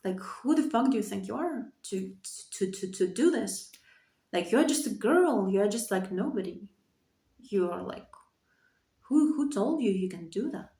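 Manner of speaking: a hint of a scornful inner voice, soft; quietly voicing the harsh voice in her head; inner critic voice. Retelling the inner critic's scorn, softly. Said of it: "that voice in my head was like".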